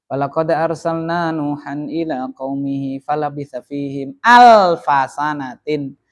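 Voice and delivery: slow, drawn-out Quranic recitation; measured chanted recitation of Arabic scripture. Shown as a demonstration. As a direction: recite the verse slowly, lingering on each word. Teacher recites Quran verse.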